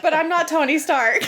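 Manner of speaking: whimpering. Retold or imitated. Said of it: "He said it all whimpering".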